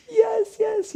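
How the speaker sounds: high mock eager agreement; fawning believer. Mocking the believers nodding along, high eager.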